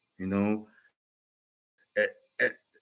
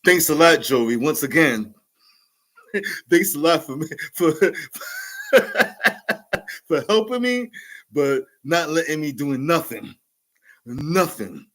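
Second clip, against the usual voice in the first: mock-grateful, laughing thanks; sarcastic thanks; 3 semitones higher than usual. Real, not acted. Shouting out Joey for taking over, sarcastic thanks. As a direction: thank him with a wink. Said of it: "big shout outs to Joey".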